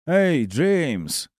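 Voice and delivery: high call through a door. Acted. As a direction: shout his name from outside. Drunk friend calling through door.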